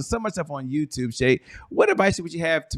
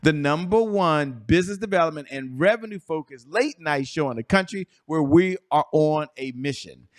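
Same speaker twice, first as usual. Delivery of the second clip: show host opening; 3 semitones higher than usual. Acted. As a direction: hype up the show, stretching the key words.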